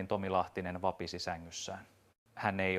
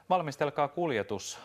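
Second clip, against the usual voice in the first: a higher, louder curt order; commanding; 7 semitones higher, 3 dB louder than usual. Acted. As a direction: give the order to prepare transport. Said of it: "Antti käski". (käskevä komento)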